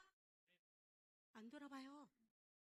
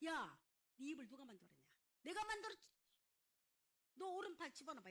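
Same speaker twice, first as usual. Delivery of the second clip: angry God; 4 dB louder than usual. Acted. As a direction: imitate a fed-up God telling Moses off. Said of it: "하나님 화가 나가지고". (화난 하나님 흉내로 꾸짖기)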